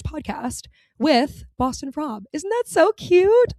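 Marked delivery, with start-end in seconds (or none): 2.3-3.5 high, loud and slow, delighted; gushing. Real, not acted. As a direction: squeal how cute it is. Gushing over the podcast.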